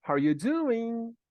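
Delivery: "How are you doing?" with "are" almost swallowed; reduced "are". Shown as a demonstration. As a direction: run "How are you" together, then stretch "doing" high and loud. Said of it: "É assim que você vai escutar eles dizerem". ("How are you doing?" com o "are" quase mudo)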